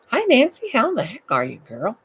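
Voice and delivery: loud, high whoop of hello falling back; exuberant loud greeting. Real, not acted. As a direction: holler hello to a friend. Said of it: "I've gotta be quiet".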